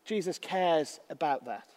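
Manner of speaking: slow, measured pastoral delivery; devotional preaching. Acted. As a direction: speak comfort slowly, pausing between phrases. Opens with slow devotional preaching and psalms.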